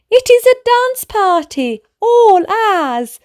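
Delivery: put-on high eager child voice; excited. Boy inviting mama to dance, excited. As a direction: announce the party with glee.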